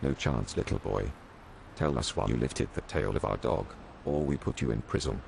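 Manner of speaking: low, gruff mock yell; roaring policeman. A narrator's reading. Policeman threatening the crying boy, low mock roar. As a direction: growl the threat like a cop. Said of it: "roared and screamed at little Max".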